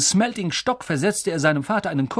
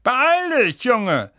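put-on high, loud call to the boy; 10 semitones higher, 5 dB louder, much slower than usual. A narrator's reading. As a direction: shout it through from the next room. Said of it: "rief Onkel Vernon aus der Küche".

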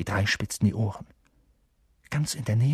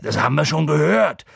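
loud, raised, irritated retort; fed-up, forceful complaint; peevish; 5 semitones higher, 7 dB louder than usual. A narrator's reading. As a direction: snap it back in annoyance. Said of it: "sagte Hagrid verdrießlich".

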